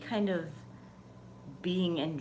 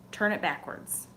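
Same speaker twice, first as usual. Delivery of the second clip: inner voice; 2 semitones higher than usual. Retold or imitated. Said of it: "it wasn't a voice".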